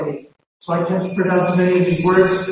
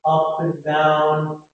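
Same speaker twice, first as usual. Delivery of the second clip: sing-song up and down; 4 semitones lower, much slower than usual. Shown as a demonstration. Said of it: "has a pause and".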